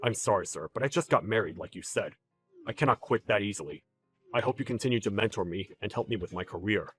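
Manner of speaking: low, soft, submissive plea; subdued and deferential; meek apology. Acted. Employee meekly apologizing to angry boss.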